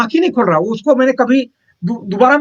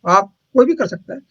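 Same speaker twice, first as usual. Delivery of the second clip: a lifted, keen reply, pitched higher; mock-eager assurance from a retold helper; eager yes; 6 semitones higher than usual. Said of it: "बोले".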